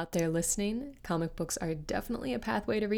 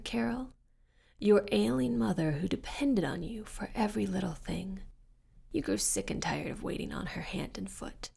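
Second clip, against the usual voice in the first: devil voice. Acted. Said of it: "A thick, raspy voice".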